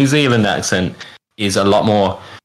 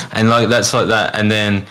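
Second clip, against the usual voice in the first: ordinary delivery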